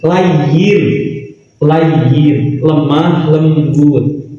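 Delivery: low, slow, gentle; lemah lembut. Shown as a demonstration. Demonstrates the gentle manner he preaches. (lembut, pelan dan rendah)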